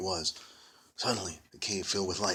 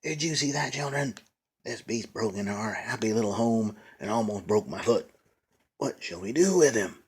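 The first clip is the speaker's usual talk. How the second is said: squealing witch; 3 semitones higher than usual. Acted. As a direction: screech like an angry hag. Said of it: "squealing at me".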